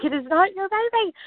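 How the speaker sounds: a half-hearted yell at the screen. Retold or imitated. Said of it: "I was yelling at the T V".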